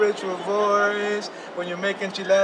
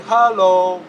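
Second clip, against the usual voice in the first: much louder shouted hello; loud call-out; 10 dB louder than usual. Shown as a demonstration. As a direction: call it out to the whole room. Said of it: "Everybody say".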